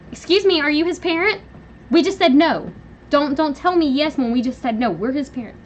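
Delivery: loud, high indignant scolding; indignant parent. Retold or imitated. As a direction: put the grandparent in her place. Acted quarrel, parent refuses.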